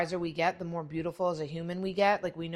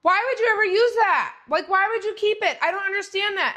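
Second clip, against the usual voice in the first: put-on excited teen daughter; 4 semitones higher, 6 dB louder than usual. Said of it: "she goes".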